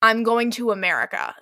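emphatic retold ultimatum; pointed mock challenge; goading. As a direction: press her to answer, acted insistence. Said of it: "Literally goading her".

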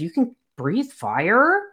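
lightly acted surprised question, drawn out and rising; a touch of retold surprise. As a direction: ask it slowly, pitch climbing in mild astonishment. Startled reaction to fire breath.

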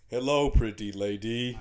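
low, slow flirting; smooth flirty voice. Acted. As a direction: croon it like a would-be charmer. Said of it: "Can I roleplay as Sigor".

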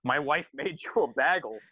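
lightly voiced odd host, BAGEL said "baggle"; imitated host voice. Host offering breakfast to the band, mild imitation. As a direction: mimic him, saying "baggle" for bagel. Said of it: "His voice is just insane".

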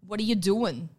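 put-on Brooklyn question; playful Brooklyn demonstration; Brooklyn accent. Shown as a demonstration. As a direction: ask it in a Brooklyn voice. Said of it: "I would say they just".

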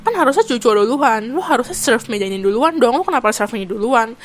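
lightly acted nagging complaint; retold scolding. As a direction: imitate someone scolding a coworker. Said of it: "gue diomelin".

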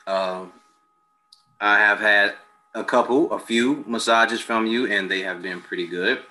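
sipping tea between words; while sipping a drink. Real, not acted. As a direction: talk around a sip of tea. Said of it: "Excuse me while I sip my tea".

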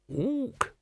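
short ape grunt-word; a librarian ape's Ook; orangutan ook. Acted.

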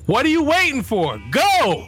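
put-on high, impatient kid in the back seat; high-pitched child's demand; little girl yelling. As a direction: holler it like a bossy little kid. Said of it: "I hear from the back seat".

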